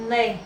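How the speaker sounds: NE said alone, held; isolated, emphatic Ne; stressed syllable. Shown as a demonstration. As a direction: pick out Ne as the strong syllable. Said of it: "a sílaba mais forte".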